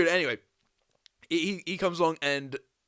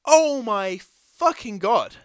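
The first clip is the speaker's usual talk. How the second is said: drawn-out, higher groan of real pain; 6 semitones higher, 9 dB louder, much slower than usual. Real, not acted. Groaning through a thigh cramp to a friend, real pain. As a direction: let the cramp squeeze it out slowly. Leg cramp won't leave.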